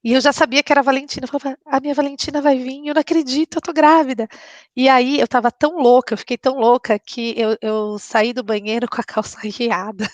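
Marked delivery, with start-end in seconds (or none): 1.6-4.3 rising, higher voice bursting with joy; can't believe your luck, happy and high; retold thrill of seeing the positive test, higher and rising; overjoyed disbelief. Telling of joyful pregnancy discovery.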